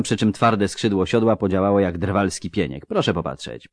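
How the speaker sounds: brisk, brightly voiced halfling surgeon; lightly voiced doctor, dry and matter-of-fact; surgeon Rasty. Halfling surgeon assessing a wounded man, dryly brisk.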